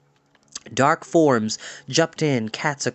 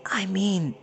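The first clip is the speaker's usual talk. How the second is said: gasped; 6 semitones higher, 5 dB quieter than usual. A narrator's reading. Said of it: "gasped Pipkin".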